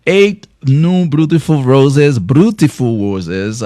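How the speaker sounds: slow, hammed-up French accent on the roses; mock French accent. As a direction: try to roll the R in roses like a Frenchman, and fail. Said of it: "I'm sorry, guys, for that French".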